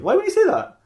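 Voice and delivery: high-pitched, indignant complaint; exasperated protest. Acted. Earl exasperated at being tested.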